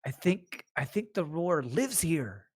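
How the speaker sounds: high-pitched, slowing, acted worry; uneasy realization. Player voices uneasy character after roar.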